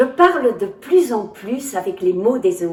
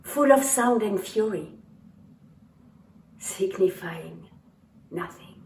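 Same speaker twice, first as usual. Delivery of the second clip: Shakespeare recitation. Acted. Actor opening his show by quoting Macbeth, solemn recitation. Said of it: "William Shakespeare, Macbeth".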